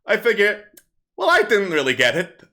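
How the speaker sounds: bawdy kobold comic on stage; kobold comedian. Acted. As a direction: perform it like a street comic working a crowd. Kobold comic continues his act.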